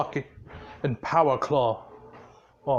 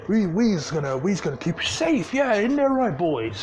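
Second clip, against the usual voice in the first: nervous placating; 2 semitones higher than usual. Acted. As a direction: hurry to calm the boss down. Orcs scramble to placate boss.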